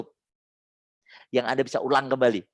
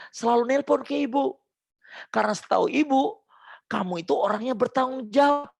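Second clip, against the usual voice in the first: demo positive reprimand; 6 semitones higher than usual. Shown as a demonstration. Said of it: "Tumbuhkan citra positifnya".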